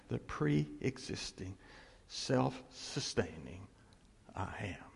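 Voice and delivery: slow, soft, fading to a whisper on I am; hushed and reverent, ending in a whisper; solemn hush. Shown as a demonstration. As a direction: drop into awe, slowly. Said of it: "Which is saying".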